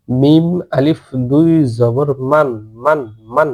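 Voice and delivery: slow, drawn-out spelling chant; teacher's slow drill chant; slow recitation demo. Shown as a demonstration. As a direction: spell মান slowly for students to repeat. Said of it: "এভাবে পড়ে নেবেন".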